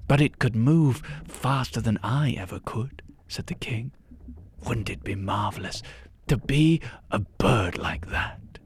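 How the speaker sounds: wistful, half-whispered king; dreamy whisper. Acted. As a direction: whisper the wish like a daydream. King longs to be bird.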